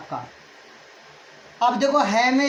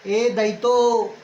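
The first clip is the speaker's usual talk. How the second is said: ए दयितो drawn out very slowly, each syllable held in a recited chant; slow recitation; much slower than usual. Shown as a demonstration. Teacher recites the sutra for students, slow and chanted. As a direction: chant the rule slowly so students can memorise it. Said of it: "कंठ तालु".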